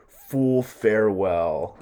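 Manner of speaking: contemptuous farewell. Acted. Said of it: "he calls Polonius a fool".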